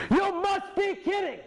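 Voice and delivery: high, slow, loud disbelieving cry; shocked client. Acted. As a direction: voice the stunned client. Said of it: "client said".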